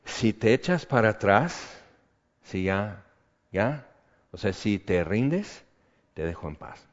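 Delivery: devil's whisper. Retold or imitated. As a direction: tempt him softly to quit. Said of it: "el diablo o uno de sus mensajeros".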